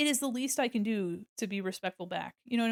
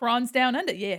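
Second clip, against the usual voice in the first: loud Australian accent slipping out unintentionally; 5 dB louder than usual. Slipping into an accent by accident: accidental Australian accent. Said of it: "I didn't mean to do an accent".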